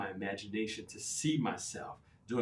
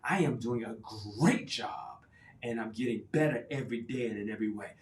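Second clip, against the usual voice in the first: emphatic affirmation. Shown as a demonstration. Coach demonstrating a stronger affirmation, emphatic. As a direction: say it like you mean it. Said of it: "make it even stronger".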